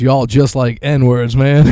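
impression. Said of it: "He goes".

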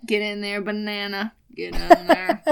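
egging the banana on, last one loud; food cheerleader. Pretend. Encouraging the banana in, building to a loud push. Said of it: "you're like a cheerleader of food".

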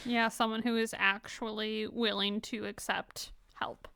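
a soft, voiceless whisper; whispered aside. Real, not acted. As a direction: breathe the remark like a secret aside. Whispered aside after the laughter.

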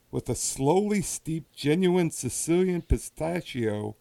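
slow, lightly put-on Italian accent on the label read; a hint of an Italian accent, savoring each word. Host reading the liqueur label to his co-host, mild Italian accent. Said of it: "I like that Italian accent there".

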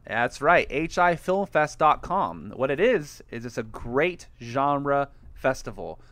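lightly hammed ad read. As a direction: pitch the festival like a radio spot. Sponsor ad read.

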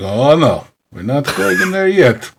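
a lightly put-on Irish lilt for Chief O'Hara; Irish accent. Cohost teasing the Irish voice, lightly voiced O'Hara in Irish accent. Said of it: "I love your Irish accent".

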